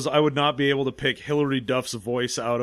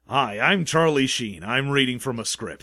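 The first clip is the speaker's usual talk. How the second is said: bland script reading; 3 semitones lower than usual. Retold or imitated. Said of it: "delivered with nothing ... as bland as possible".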